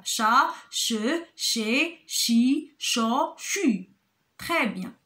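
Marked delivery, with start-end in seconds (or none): 0.0-3.9 each syllable sounded separately, "Chat, che, che, chi, cho, chu"; syllable drill. Shown as a demonstration. Teacher reading syllables to children, syllable drill of "Chat, che, che, chi, cho, chu". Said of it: "Ce sont des syllabes".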